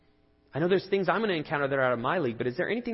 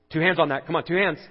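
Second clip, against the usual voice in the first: mock coaxing; 4 semitones higher, 10 dB louder than usual. Son coaxing himself with iPad.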